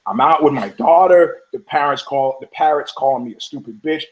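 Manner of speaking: acted firm, angry ultimatum; mock-angry telling-off, punched endings; pissed-off woman. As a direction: lay down the law, mildly heated. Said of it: "now she's pissed".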